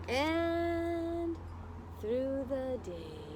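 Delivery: put-on slow, lilting read-aloud for children; story narration. A narrator's reading. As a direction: read it like storytime, drawing out the words. Reading picture book to class.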